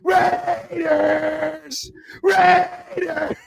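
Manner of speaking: high, drawn-out repeated mock yell; imitated yelling. Boy yelling as Steelers fans look back, imitated shout. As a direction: keep hollering like a kid. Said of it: "He's yelling".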